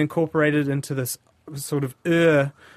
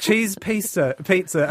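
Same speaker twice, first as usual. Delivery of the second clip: amused reread; 6 semitones higher, 3 dB louder, slower than usual. Real, not acted. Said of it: "will you read that again".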